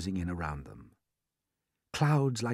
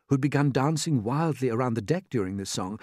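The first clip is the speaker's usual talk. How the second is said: plain reading voice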